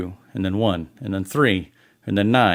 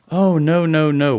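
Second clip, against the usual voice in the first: mock reassurance; 6 semitones higher, 4 dB louder than usual. Mocking the company's fake reassurance.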